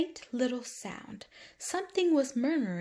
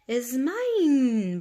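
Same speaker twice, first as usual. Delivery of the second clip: buzzing bumblebee; 5 semitones higher, 7 dB louder than usual. Acted. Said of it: "buzzed the bumblebee".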